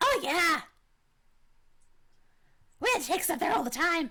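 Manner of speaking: put-on high, loud small creature voice. A player answers whether they know where the table is, in a kobold creature voice. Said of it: "when you do your kobold voice".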